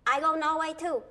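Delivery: loud, firm self-invitation; firm insistence. Acted. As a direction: insist loudly, overruling the refusal. Insists after being told no.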